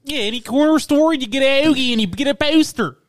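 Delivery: exaggerated Philly demonstration; Philly accent. Shown as a demonstration. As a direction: show off Philly vowels on "hoagie" and "poster". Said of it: "Look up how to do a Philly accent".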